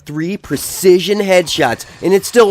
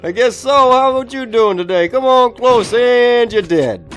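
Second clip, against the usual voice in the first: mock menacing reply; 8 semitones higher, 5 dB louder than usual. Zombie answers the gun seller.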